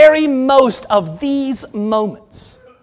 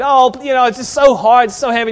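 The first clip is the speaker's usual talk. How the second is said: whining; 3 semitones higher than usual. Retold or imitated. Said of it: "he's just kinda whining a little bit".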